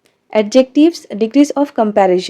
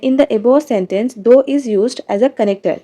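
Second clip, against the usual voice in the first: slow read-aloud; much slower than usual. Shown as a demonstration. Reads book explanation.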